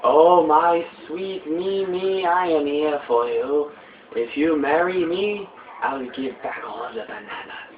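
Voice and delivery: slow, oily villain wooing his love; a scheming baboon courting, drawn out; lightly voiced villain proposal.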